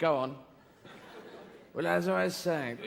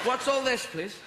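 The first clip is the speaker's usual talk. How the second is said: haughty settler; 6 semitones higher than usual. Acted. Settler talking down to natives.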